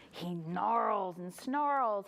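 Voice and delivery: slow, drawn-out growly telling; snarling narration. A narrator's reading. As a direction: act out the snarls as you narrate. Bear wakes up snarling.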